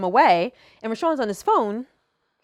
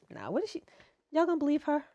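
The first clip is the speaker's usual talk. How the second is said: mad cool; 7 semitones higher, 11 dB quieter, faster than usual. Retold or imitated. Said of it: "he was mad cool".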